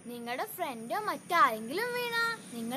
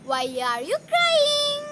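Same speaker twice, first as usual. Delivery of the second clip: dewdrop asking; 9 semitones higher, 6 dB louder, slower than usual. Acted. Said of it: "The dewdrop asked to Sen".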